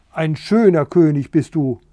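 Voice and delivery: loud, sarcastic hen's scolding. Acted. Hens scolding the useless king, angry and loud. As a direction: scold him with scorn. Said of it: "schimpften Gundula und Bertha".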